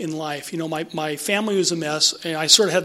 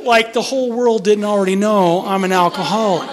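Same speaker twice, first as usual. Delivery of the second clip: laughing; 3 semitones higher, 4 dB louder than usual. Real, not acted. Laughs at his delusion.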